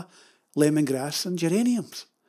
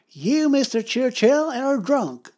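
higher, slow, haughty lady voice; Lady Astor; 7 semitones higher, 4 dB louder, slower than usual. Retold or imitated. Lady Astor scolding Churchill in a slow, higher, haughty put-on voice. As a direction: look down your nose at him, slowly. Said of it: "She said".

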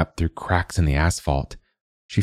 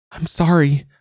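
high, louder feigned apology; calling out; 12 semitones higher, 3 dB louder than usual. Acted. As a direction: call up sweetly, faking sorry. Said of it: "she calls".

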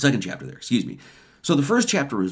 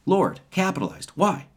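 higher-pitched, pointed question; rhetorical challenge; 6 semitones higher than usual. Real, not acted. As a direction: challenge them to see it.

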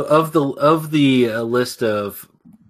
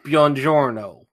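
slow, drawn-out Italian accent; slower than usual. Shown as a demonstration. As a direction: say Buongiorno in a hammy Italian way. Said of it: "terrible Italian accent".

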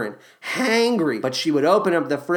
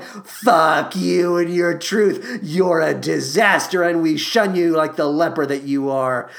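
put-on scornful teens. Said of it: "these same kids are like".

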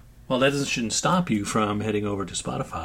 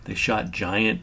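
slow, drawn-out letdown; understated mock disbelief, slowly; disappointed movie quote; much slower than usual. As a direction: imitate a let-down traveler, dragging the words. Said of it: "It's, like, so disappointing".

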